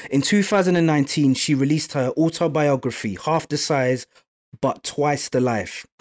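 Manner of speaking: measured, scripted guest introduction; podcast intro read. Acted. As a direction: present the guest in an even announcer read. Host reads scripted guest introduction.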